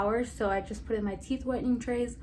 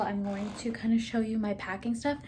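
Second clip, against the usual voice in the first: whispering. Real, not acted. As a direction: whisper it under your breath. Whispered aside while packing.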